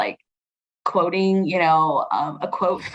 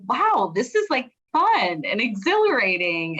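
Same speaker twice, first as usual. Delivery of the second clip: higher-pitched wowed reaction; retold delight; 4 semitones higher than usual. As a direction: lightly re-enact a happy discovery. Retelling her own delighted reaction.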